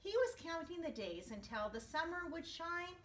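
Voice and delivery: put-on gentle storybook narration to kids; storyteller voice for young listeners; reading to children. A narrator's reading. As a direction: read it like story time for a class. Reading picture book to class.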